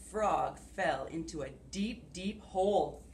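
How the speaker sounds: put-on expressive read-aloud to kids; storytelling. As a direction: read it like a picture book. Reading picture book aloud.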